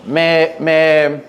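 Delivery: moved listener. Retold or imitated. A hint of a moved listener stammering to the preacher. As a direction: stumble over me, lightly overcome. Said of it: "y dice".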